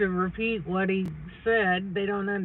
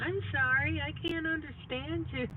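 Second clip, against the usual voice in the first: high, polite mock apology; drive-through worker; 7 semitones higher, 4 dB quieter than usual. Wife mimics the drive-through clerk, high and politely baffled. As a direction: play the baffled clerk, pitched up.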